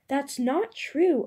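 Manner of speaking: put-on a frightened girl crying out against the charge; cried out. A narrator's reading. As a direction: cry out the denial in desperation. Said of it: "Ursula cried out".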